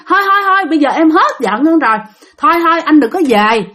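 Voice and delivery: acted wife hurriedly dissuading him; worried. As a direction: talk him out of it, anxiously. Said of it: "bạn nghe bạn rất là lo". (giọng vợ lo lắng can ngăn)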